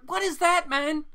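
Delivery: high, loud startled question; surprised. Real, not acted. Host reacting to the book, surprised. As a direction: blurt it out in disbelief.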